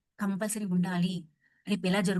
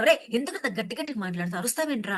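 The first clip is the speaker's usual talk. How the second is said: mildly raised, hurried scolding; mock parental scolding; faster than usual. Parent telling children off for shouting, mock scolding. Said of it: "నువ్వే అరుస్తున్నావు కదా".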